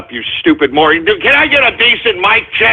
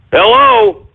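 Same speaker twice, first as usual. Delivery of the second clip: much higher, alarmed hello; calling out high; 14 semitones higher than usual. Real, not acted. Host checking his broken mic, high alarmed call. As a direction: call out, worried nobody hears.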